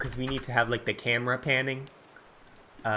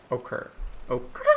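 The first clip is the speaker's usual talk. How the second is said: whispered repeat. Shown as a demonstration. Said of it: "I don't know what occurred".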